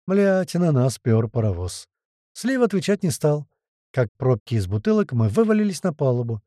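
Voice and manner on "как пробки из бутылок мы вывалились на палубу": plain reading voice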